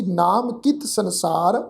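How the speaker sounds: measured reading with a stop after ਸੰਸਾਰ; phrase closed off by a pause after ਸੰਸਾਰ. Shown as a demonstration. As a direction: read through to ਸੰਸਾਰ, then rest. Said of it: "ਸੰਸਾਰ ਸ਼ਬਦ ਤੋਂ ਬਾਅਦ ਵਿਸ਼ਰਾਮ ਆਏਗਾ".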